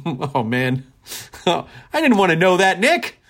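laughing. Real, not acted. Laughs reading a grim fact.

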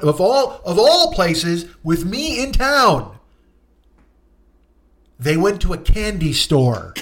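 ordinary delivery

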